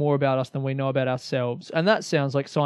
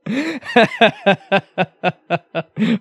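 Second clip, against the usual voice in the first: a long real laugh, rising; 5 semitones higher than usual. Real, not acted. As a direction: crack up laughing at yourself. Laughing at own joke.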